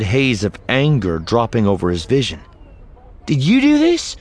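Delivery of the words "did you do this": high, loud, angry demand. A narrator's reading. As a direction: hurl the accusation up high. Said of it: "he demanded".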